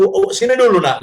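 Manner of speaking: tender call to son. Retold or imitated.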